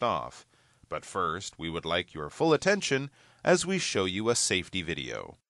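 flight attendant announcement. Acted. Purser welcome on flight.

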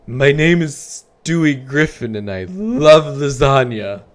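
high, loud, slow cartoon voice; Stewie Griffin impression. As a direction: overblown cartoon baby voice. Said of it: "Here's my Stewie Griffin impression".

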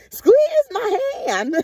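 high, crying voice, hammed-up as mom; mock crying plea. Mocking mom pleading by the bed, high, crying. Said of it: "She like".

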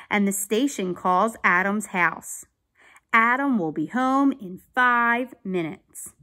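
put-on clear, emphatic children's story narration; read-aloud story. A narrator's reading. Teacher reading a police story to children, animated narration. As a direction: read it out carefully for young listeners. Reads a picture book aloud.

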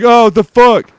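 surprised enemy in a squeaky put-on voice; voicing the enemy. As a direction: play the baffled enemy, hammed up. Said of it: "He's like".

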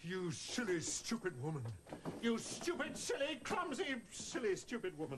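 exasperated scolding. Acted. Insulting helper after puppet mishap.

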